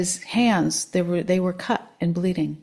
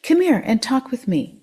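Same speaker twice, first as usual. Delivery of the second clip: higher, lilting friendly invitation; easy vernacular; 6 semitones higher, 3 dB louder than usual. A narrator's reading. Old man inviting the drunk to talk, easy vernacular. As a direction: lightly beckon him over for a chat. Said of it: "said in an easy vernacular".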